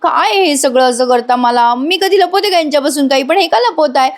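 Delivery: fretting aloud, fed up; mild mock annoyance; annoyed. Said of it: "Sayali आता वैतागलेली असते खूप".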